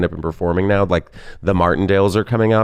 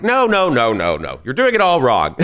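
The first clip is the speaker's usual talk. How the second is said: mock indignant; 2 semitones higher than usual. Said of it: "I'm like".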